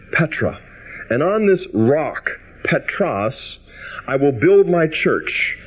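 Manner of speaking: solemn scripture reading. Acted. Preacher reading Jesus naming Peter the rock, solemn. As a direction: proclaim it phrase by phrase. Jesus' words read aloud.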